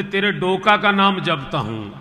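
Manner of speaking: a fed-up man snapping back; angry retort. Retold or imitated. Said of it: "उसको बहुत जोर गुस्सा आ गया". (गुस्से में झिड़कना)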